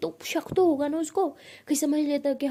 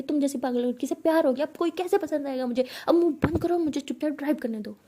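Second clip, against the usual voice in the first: fed-up rant, mildly acted shouting; angry outburst. Pihu scolds her girlfriend while driving, angry outburst. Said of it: "Pihu ऐसे चिल्ला के".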